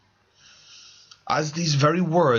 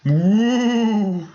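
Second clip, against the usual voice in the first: loud, high, eerie ghost wail; haunt the room with a long woo; ghostly woo; 10 semitones higher, 6 dB louder than usual. Acted. Ghost interrupting the committee meeting, loud eerie wail. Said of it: "said a ghostly voice".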